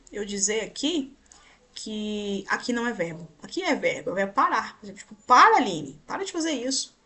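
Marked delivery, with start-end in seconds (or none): 5.3-7.0 mock-exasperated command, louder on the name; acted scolding. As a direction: call out sharply to make her stop. Acted command as example sentence.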